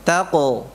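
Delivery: "taqo" with a deep throat q and an o sound; deep qaf. Shown as a demonstration. Teacher showing the qaf sound. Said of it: "qafnya begitu".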